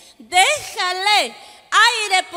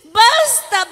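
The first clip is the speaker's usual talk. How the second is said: a louder, sharp basta to stop them; firm basta; 2 semitones higher, 3 dB louder than usual. Acted. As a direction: call out basta to break it up. Pleading to stop a fight.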